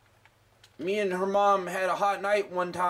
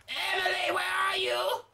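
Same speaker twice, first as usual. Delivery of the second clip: calling out; 10 semitones higher than usual. Pretend. Calling for the child in game.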